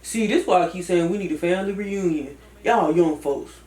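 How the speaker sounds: older cousin giving advice with a hint of a deep Atlanta voice; Cousin Fat. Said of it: "Cousin Fat".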